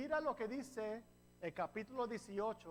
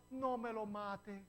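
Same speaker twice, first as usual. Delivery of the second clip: begging; slower than usual. Retold or imitated. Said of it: "le suplicó".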